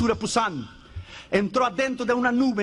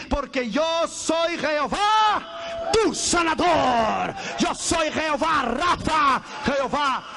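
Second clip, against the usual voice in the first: slow, shouted proclamation; preaching climax; 2 semitones higher, slower than usual. Real, not acted. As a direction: proclaim the name slowly. Climax of scripture quote.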